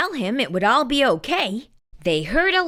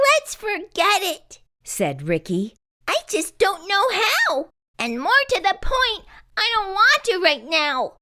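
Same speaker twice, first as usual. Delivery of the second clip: worried Ricky; 10 semitones higher than usual. A narrator's reading. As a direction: fret to your friend. Ricky reluctant.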